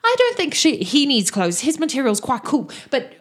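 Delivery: rising, loud rambling; nervous chatty NPC; flustered babble. Acted. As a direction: stumble over the introductions. NPC rambles about clothes.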